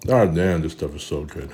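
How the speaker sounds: talking while chewing; words round a mouthful; mouth full. Real, not acted. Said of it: "talk with my mouth full".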